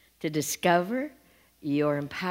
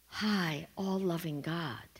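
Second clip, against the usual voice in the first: breathed out in a reverent whisper; whispered to the congregation in awe; 4 semitones lower, 9 dB quieter, slower than usual. Real, not acted. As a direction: hush it like a prayer. Reverent hush in sermon.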